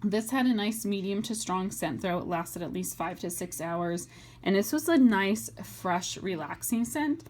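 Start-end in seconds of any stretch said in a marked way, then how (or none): 4.4-7.2 talking through sudden hiccups; hiccuping between words. Real, not acted. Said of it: "I have the hiccups all of a sudden".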